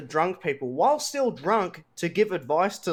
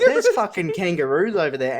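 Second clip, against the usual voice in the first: laughing through the words, louder; 5 dB louder than usual. Real, not acted. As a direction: retell the scare while cracking up. Laughing while retelling kangaroo scare.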